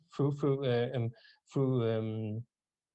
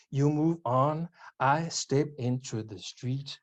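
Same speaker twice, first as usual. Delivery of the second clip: measured poetry reading, a pause after each line; poem recitation. Acted. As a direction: recite deliberately, dropping the pitch on the refrain. Reads own poem in English.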